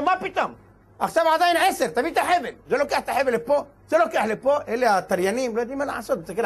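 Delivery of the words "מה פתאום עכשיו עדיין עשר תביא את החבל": high, urgent objection; heated protest. Acted. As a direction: insist hotly that it isn't late. Friend insists it's still ten. (מחאה נרגשת וגבוהה)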